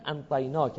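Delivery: انطیناک with a still n replacing the ayn; Estenta dialect. Shown as a demonstration. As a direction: say انطیناک, n straight before the ta. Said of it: "حرف عین رو به نون ساکن". (انطیناک با نون ساکن به جای عین)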